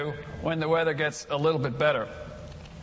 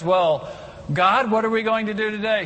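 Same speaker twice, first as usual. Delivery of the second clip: eager Adam; 5 semitones higher than usual. Pretend. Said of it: "let's just suppose he says".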